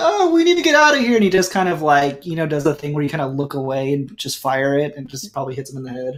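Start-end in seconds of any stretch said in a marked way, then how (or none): 0.0-1.1 panicked voice, pitched higher. Voicing a character who panics during a fight: panicked. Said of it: "he kinda panics for a second".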